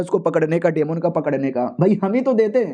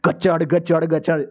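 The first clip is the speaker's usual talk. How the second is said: repeated crunching "gachad" sound; imitated chomping noise; slower than usual. Man describing someone being eaten behind a wall, imitated chomping noise. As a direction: mimic something devouring its prey. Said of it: "दीवार के पीछे से आवाज़ आ रही थी".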